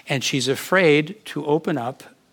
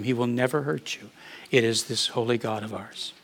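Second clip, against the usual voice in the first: gentle retold comfort. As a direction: speak it gently, as if to someone afraid. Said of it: "I said it real gently".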